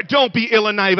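loud, ringing "Don't be ill and naive" with "Don't" hit hard; loud rebuke. Real, not acted. Preacher scolding the whole room, loud. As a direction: punch "Don't" and call it out loud. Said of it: "Really? Everyone in this room?".

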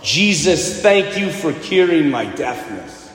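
a slow, understated shout of thanks; healed woman's yell retold mildly, slow. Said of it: "she yells at the top of her lungs".

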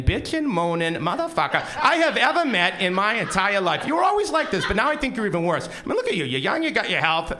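high, loud, exasperated friend; incredulous rant. Retold or imitated. Friend chews out the whining narrator, loud and high. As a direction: blast him for complaining so much.

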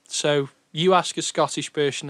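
"person" slipping into a light Scottish "pershon", Sean Connery style; a faint Scottish Connery slur on "person"; hint of Sean Connery Scottish. Real, not acted. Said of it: "that was a bit of Sean Connery there".

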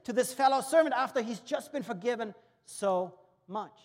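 loud, high, righteous disbelief; the preacher voices his own outrage, loud and high; indignant outrage. Retold or imitated. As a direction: rail at the injustice. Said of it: "every little hair goes up".

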